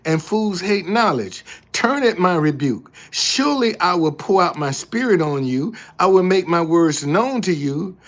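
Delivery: emphatic, declamatory Bible reading; forceful scripture reading. Acted. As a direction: read it out firmly as God's rebuke. Reads the same passage in another version.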